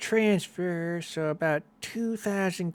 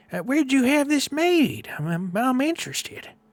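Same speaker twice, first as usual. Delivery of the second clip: put-on raised, high-pitched elderly woman character voice; 7 semitones higher, 6 dB louder than usual. Storyteller voicing an old tiefling behind the desk, greeting two customers: old tiefling woman voice. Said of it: "you see an old tiefling behind the desk".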